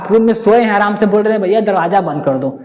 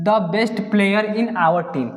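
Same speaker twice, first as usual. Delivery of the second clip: slow question read; much slower than usual. Shown as a demonstration. Reads answer slowly.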